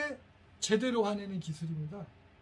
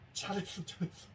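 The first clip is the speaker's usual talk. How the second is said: quiet praise; 7 dB quieter than usual. Retold or imitated. Husband quietly praising wife.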